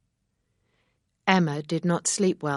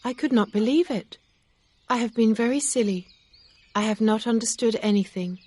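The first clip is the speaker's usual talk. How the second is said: put-on higher, faster young woman's voice; Emma, flustered and ashamed, rushing; young heroine pleading, higher and quick; Emma's voice; 6 semitones higher, 4 dB louder, faster than usual. A narrator's reading.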